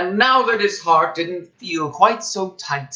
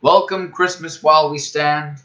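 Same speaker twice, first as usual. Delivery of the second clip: Whoville carol. A narrator's reading. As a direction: chant it warmly like a song. Whos' Christmas song, recited.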